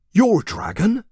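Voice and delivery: high, disbelieving question; incredulous villager. A narrator's reading. Villager questioning the boy, high and incredulous. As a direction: scoff at the boy. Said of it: "asked another".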